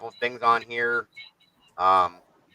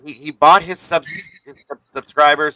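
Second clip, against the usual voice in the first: stuttering; 5 dB louder than usual. Real, not acted. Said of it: "That's why I'm fucking stuttering".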